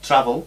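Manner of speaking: travel, accent on TRA; stress on first syllable. Shown as a demonstration. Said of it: "recae en la primera y no en la última".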